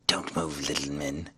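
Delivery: very low, hushed menace; whispered threat. A narrator's reading. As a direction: drop right down into a soft warning. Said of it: "whispered a voice".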